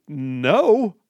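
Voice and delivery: lightly voiced loud rant; ranting guy. Host retells a Twitter ranter's loud rant. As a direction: build the ranter's argument with heat. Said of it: "He said".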